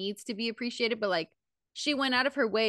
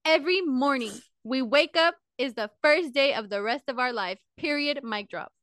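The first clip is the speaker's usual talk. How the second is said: drill sergeant; 4 semitones higher than usual. Shown as a demonstration. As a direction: bark the motto like a sergeant. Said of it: "I will say it like a drill sergeant".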